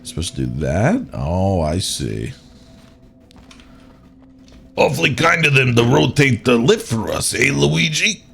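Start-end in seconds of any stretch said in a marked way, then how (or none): 4.7-8.2 Mario voice. Pretend. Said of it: "I don't think I can do a Mario voice like that very well".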